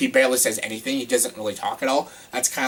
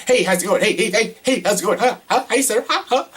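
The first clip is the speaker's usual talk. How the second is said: mock an overexcited woman; hyper Emma Stone; 6 semitones higher than usual. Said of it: "she was just so hyper".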